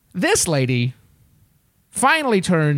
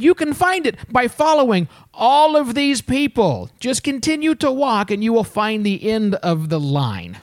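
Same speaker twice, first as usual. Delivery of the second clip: slow, over-patient instructions; pointed directions; 3 semitones higher than usual. Retold or imitated. Traveler directs a line cutter to the back, pointedly. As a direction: spell it out with exaggerated slowness.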